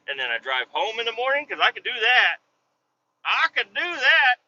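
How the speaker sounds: retold plea, building to a high stretched finish; acted pleading. Pleading his case with the scheduler.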